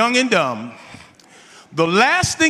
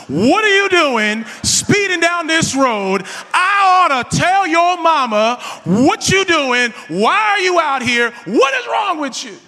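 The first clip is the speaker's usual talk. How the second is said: scolding officer; 7 semitones higher, 4 dB louder than usual. Retold or imitated. Church-leader cop yelling at a speeding teen, loud and high. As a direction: tear into the kid like an angry church elder.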